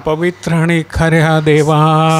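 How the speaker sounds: drawn-out call to God; slow, understated plea of the martyrs; mild crying out. Acted. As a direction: call on God, stretching the words. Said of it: "मोठ्यानं ओरडून काय म्हणाले".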